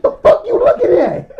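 loud, high-pitched retold outburst; outraged challenge. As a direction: imitate a friend's incredulous demand at high pitch. Acts out friend's outraged challenge.

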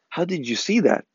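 a touch of disbelief; impressed listener. Retold or imitated. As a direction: lightly act out someone's amazement. Imitating impressed listeners' reaction.

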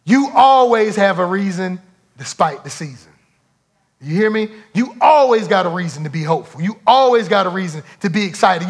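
loud, rolling preacher's refrain; preaching refrain. Acted. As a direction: drive the word always home each time.

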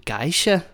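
Danish "geisha", first syllable like GUY; "geisha" as a Dane says it, opening with an eye vowel; Danish pronunciation. Shown as a demonstration. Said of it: "you can hear them in Danish".

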